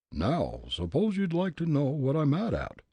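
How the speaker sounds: put-on loud, high, blustering old gent; gruff angry old man. Old gent challenging Fritz, gruff and angry.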